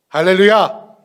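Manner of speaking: loud hallelujah cry; hallelujah shout. Real, not acted. Preacher exclaims hallelujah to the congregation, loud. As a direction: exclaim it with joy.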